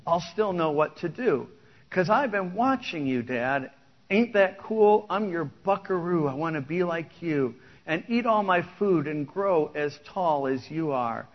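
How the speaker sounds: lyrics spoken like a story poem; preacher reading out a country song; song recitation. Acted.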